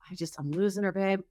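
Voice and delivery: lightly voiced husband choking up over his daughter; imitating teary husband. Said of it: "And he's like".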